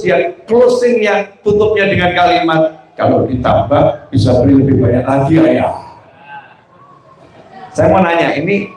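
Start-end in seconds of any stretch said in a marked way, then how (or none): 3.0-5.7 put-on hopeful child. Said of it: "Sama senang dia ngomongnya".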